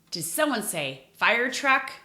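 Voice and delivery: delighted mock surprise; surprised. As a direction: act amazed at a guess. Pretends to hear a guess.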